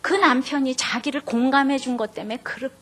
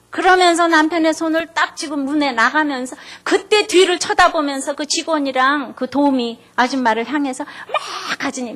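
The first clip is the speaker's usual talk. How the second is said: ordinary delivery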